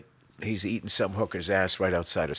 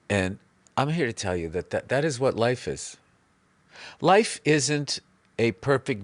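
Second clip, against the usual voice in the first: mock spiritual guru. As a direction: soothe the crowd with nonsense wisdom. Mock guru life advice.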